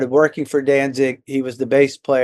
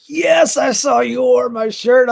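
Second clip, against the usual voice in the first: much higher, excited squeal of a starstruck fan; giddy fan reply; 10 semitones higher, 4 dB louder than usual. Retold or imitated. Answering the bassist on the phone, high excited squeal. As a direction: gush it out like a teenager meeting his hero. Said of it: "And I was like".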